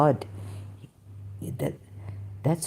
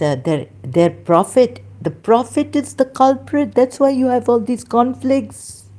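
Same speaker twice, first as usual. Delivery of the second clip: much higher and louder, charged condemnation; heated outburst; 7 semitones higher, 5 dB louder than usual. Real, not acted. Denouncing the prophet to his viewers, a loud angry outburst. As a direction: let it burst out as an accusing tirade. Heated denunciation of rival faith.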